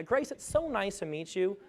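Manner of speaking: disconnected greeting. Shown as a demonstration. Presenter showing a distracted hello to Grace, softly detached. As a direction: say it like you're not really there. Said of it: "how connected was I to you? Like zero".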